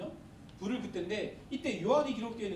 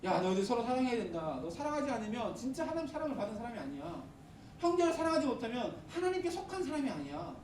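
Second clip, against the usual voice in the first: John exhorting; 4 semitones higher than usual. Retold or imitated. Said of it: "라고 이렇게 계속해서 얘기하는 사람이 요한이에요".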